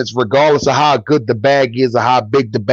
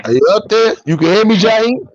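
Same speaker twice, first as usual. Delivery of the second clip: raised voice calling to someone; 6 semitones higher than usual. Real, not acted. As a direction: call up to a friend who can't hear. Calling a guest into the stream.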